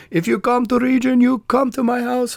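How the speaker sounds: friendly put-on Balkan host inviting; lightly voiced welcoming local; imitating a local host. Imitating regional hospitality.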